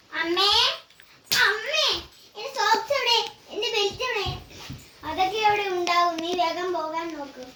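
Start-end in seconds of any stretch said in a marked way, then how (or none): 0.1-4.3 put-on a small girl hunting for her socks and belt before school; child's plea, lightly voiced; little daughter calling mom. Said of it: "ഞാൻ എൻ്റെ കൊച്ചുമോളായി അവതരിപ്പിക്കുന്നു".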